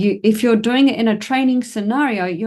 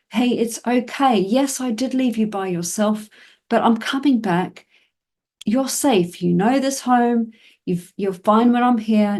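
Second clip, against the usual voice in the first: reassuring the dog; 4 semitones higher than usual. Pretend. Owner reassures dog left alone.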